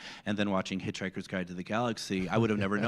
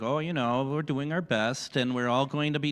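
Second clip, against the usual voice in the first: light, folksy Minnesota lilt; host showing off his Minnesota accent to a British actor; 3 semitones higher than usual. Pretend. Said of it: "Who knew I could do that".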